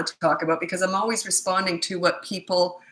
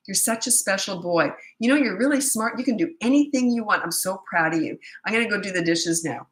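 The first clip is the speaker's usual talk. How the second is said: overpraising parent. Retold or imitated. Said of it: "so it goes something like this".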